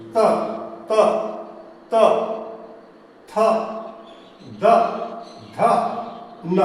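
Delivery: त, थ, द, ध, न made with the tongue against the teeth; dental consonants. Shown as a demonstration. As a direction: drill dental त, थ, द, ध, न one by one. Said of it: "निचले दांत में सटा के रखिए".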